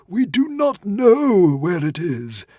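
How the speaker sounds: tiny frantic squeaking creature; squeaky little dragon. A narrator's reading. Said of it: "admitted the Woden's Fang".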